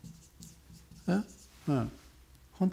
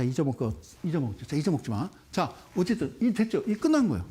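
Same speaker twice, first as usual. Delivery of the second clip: usual speaking voice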